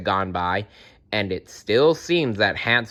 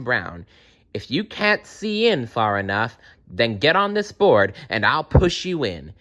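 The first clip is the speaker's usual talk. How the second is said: put-on old witch calling. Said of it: "the old woman called out to Gretel".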